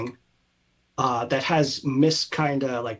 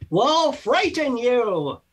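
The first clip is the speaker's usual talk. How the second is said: higher, slow mock menace; spooky spirit threat; 11 semitones higher, 4 dB louder, slower than usual. Spirit threatens the party, higher and slow. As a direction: drag it out to frighten.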